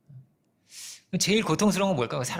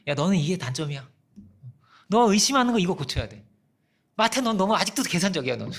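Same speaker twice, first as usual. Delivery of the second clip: lightly acted nitpicking scolding; mock nagging; 3 dB louder than usual. Jesus imagined checking each disciple's faults, mock nagging. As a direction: imitate someone picking at each fault. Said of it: "막 체크하고 잔소리하고".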